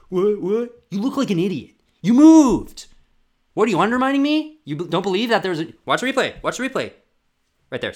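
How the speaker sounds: high, loud furious mock tirade; hammed-up raging official; rude linesman yelling. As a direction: scream at the athlete like a petty referee.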